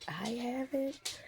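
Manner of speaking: slow, soft, stunned disbelief; hushed disbelief. Retold or imitated. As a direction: let it sink in, barely voiced. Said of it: "And I'm like".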